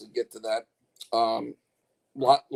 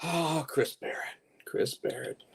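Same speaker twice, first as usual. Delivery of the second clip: whisper; 9 dB quieter, slower than usual. Acted. Whispered name.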